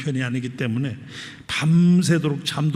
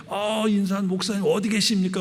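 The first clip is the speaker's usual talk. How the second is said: mild mock yell, raised pitch; higher-pitched imitation of someone calling; retold calling out; 6 semitones higher than usual. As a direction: call out lightly as if searching for someone. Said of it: "막 소리를 지르면서".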